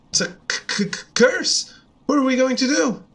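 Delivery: mock terrified stammer; hammed-up panic over the curse. Frog curse panic, stuttered.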